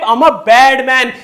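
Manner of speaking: lightly imitated film villain, loud and slow; Gulshan Grover. Girls want a villain type, mock villain boast. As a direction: draw it out like a boastful bad guy. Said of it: "Gulshan Grover type".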